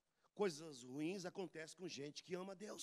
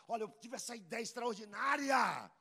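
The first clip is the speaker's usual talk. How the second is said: mock boast; 6 semitones higher, 8 dB louder than usual. Boastful person imitated.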